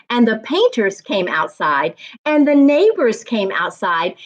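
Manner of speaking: lively read-aloud storytelling voice; story narration. A narrator's reading. Teacher reading to young class, lively storybook narration. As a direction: read it to the class like a picture book.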